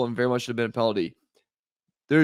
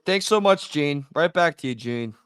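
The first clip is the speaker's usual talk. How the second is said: a hint of a chipper anchor tossing back to the studio, laughing; mock TV sign-off. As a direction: tease the referee like a newscaster. Mocking a broadcast sign-off.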